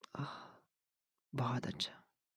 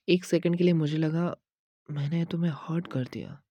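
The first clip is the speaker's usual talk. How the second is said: louder, higher burst of relief; relieved outburst; 3 semitones higher, 4 dB louder than usual. Acted. Boyfriend learning girlfriend's sadness was a prank, relieved outburst. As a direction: let the relief spill out.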